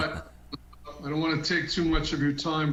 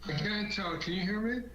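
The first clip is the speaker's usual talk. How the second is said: distant, muffled voice; from the other room; 4 semitones higher, 3 dB quieter than usual. Real, not acted. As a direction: sounds like it's through a wall. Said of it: "it sounds like you're in the other room".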